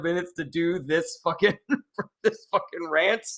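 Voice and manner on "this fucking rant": laughing. Real, not acted. Laughs at own long rant.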